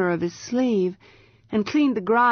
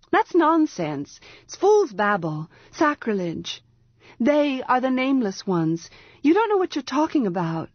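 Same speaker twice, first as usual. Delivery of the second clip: higher, scornful priestess snapping back; scornful outburst; 5 semitones higher than usual. Acted. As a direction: brush his claim aside as fool's babble. Scornful priestess rebukes prisoner.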